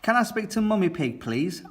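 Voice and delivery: high, fast, breathless pleading; panicked Daddy Pig. Acted. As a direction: rattle it off in a mock panic.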